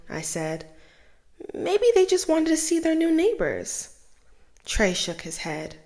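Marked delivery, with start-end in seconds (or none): 1.5-3.9 bright reassurance. Acted. Tay-Tay reassuring her nervous little brother, high and hopeful. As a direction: voice lifted high, cheerful and hopeful.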